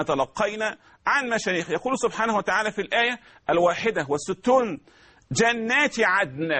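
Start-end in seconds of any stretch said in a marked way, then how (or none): 5.3-6.5 جنات with a doubled ج; slow recitation. Shown as a demonstration. Teacher demonstrates جنات, doubled and slow. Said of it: "جنات عدن عندك في القرآن".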